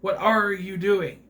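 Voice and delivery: a mocking slow demo of overworked R sounds; overdone American R's. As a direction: imitate an Aussie actor forcing American R's. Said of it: "they say their R's, but you know that they're not supposed to say it".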